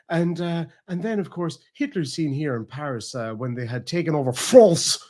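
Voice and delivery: mock documentary narration that suddenly turns French on "France"; lightly acted narrator, Frenchified final word; changed-accent presenter. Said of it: "her accent completely changed".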